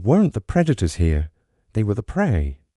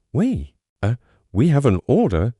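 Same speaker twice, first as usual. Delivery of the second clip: stammering. Acted. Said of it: "he stammered".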